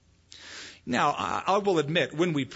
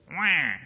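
mock baby wail. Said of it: "my only means of communication was".

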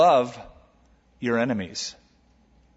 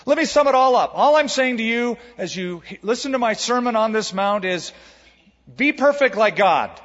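higher, louder, hammed-up preacher bark; mock stern command, higher and louder; mock stern demand; 6 semitones higher, 4 dB louder than usual. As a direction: play the harsh taskmaster who demands perfection. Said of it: "That's what it sort of sounds like to our ears".

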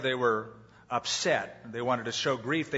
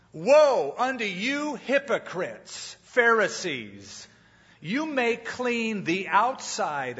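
Jesus rebuking; slower than usual. Retold or imitated. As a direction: thunder the woe at them. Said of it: "Jesus busted them".

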